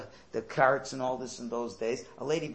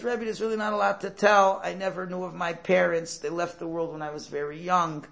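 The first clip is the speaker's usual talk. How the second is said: earnest confession; 4 semitones higher, 6 dB louder than usual. Retold or imitated. Porter pours out his story.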